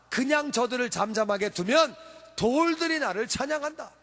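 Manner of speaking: emphatic declaration, lightly acted; 예수님. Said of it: "예수님이 이렇게 말씀하십니다". (힘주어 선포하는 말투로 살짝 흉내)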